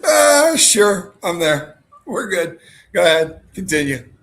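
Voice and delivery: cracking up while voicing her shaky answer; giggling through an imitation of her friend agreeing; laughing mock reply. Laughing while imitating friend's nervous reply.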